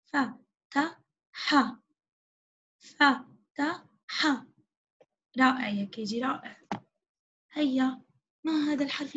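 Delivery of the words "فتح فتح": فتح stretched very slowly; slow blending. Shown as a demonstration. Teacher slowly sounding out فتح for children. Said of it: "كيف تصبح الكلمة".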